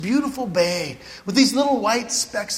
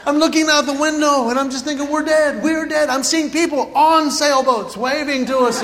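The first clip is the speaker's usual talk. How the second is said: panicked; 4 semitones higher, 3 dB louder than usual. Retold or imitated. Sure they will crash.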